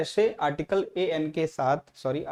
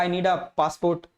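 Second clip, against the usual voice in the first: slow model sentence; much slower than usual. Shown as a demonstration. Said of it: "आपने कहा".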